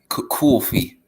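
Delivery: mock New York "coffee"; New York accent. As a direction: imitate a New Yorker's coffee. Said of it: "Light New York accent".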